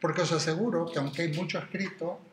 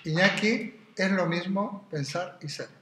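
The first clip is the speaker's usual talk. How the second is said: voicing Parmenides; 2 semitones higher, slower than usual. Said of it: "y te diría".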